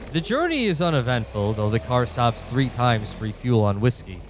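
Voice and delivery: measured storyteller narration; game master narration. A narrator's reading. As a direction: set the scene like a game master. GM scene setting over music.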